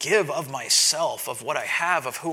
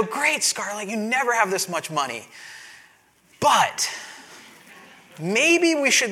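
coaxing dad; 2 semitones higher than usual. Retold or imitated. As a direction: talk her round gently but firmly. Dad persuading daughter, quoted.

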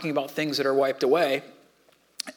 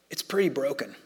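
hushed whisper; 2 semitones lower, 5 dB quieter than usual. Real, not acted. Preacher to congregation, whispering softly. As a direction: drop to a near whisper on the last words. Sermon on a broken world.

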